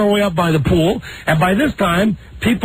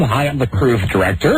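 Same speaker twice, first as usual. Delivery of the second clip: campy drag queen; 5 semitones lower than usual. Retold or imitated. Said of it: "this guy talked like this".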